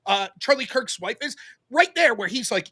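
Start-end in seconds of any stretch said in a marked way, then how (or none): 0.0-1.3 fast, much softer mock gasp; imitating a sneering accuser; mocking fake outrage. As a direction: rattle it off like a smug pearl-clutcher. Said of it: "they're like".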